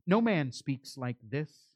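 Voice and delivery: slow, softened wonder; marveling. Retold or imitated. Officers reporting on the words of Jesus, quietly marveling. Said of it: "They marveled at the words of Jesus".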